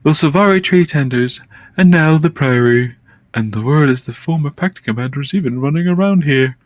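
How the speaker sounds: a touch of an eager researcher; character voice. Acted. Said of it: "I don't know if I can keep that up".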